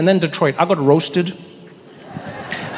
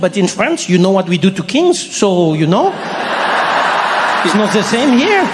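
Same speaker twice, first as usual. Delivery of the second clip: mock French accent, knowing; pointed French-accented warning; French woman. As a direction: let the French woman hint darkly. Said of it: "a French woman".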